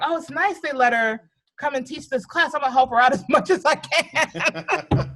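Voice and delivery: lightly voiced kind-hearted child; earnest little kid. Four-year-old deciding to help the teacher, high and chirpy. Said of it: "And I'm like".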